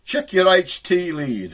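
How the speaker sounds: high, slow, drawn-out call; mysterious voice. Retold or imitated. Voice from nowhere to stranded driver, slow high call. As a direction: intone it slowly from out of nowhere. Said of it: "here's this voice".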